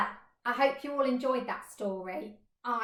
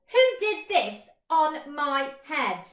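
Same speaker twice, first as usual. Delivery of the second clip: louder, slow eager question; excited question; 4 semitones higher, 8 dB louder, slower than usual. Acted. Mole asking the flies, eager and loud. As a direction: ask it with eager hope. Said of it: "he asked excitedly".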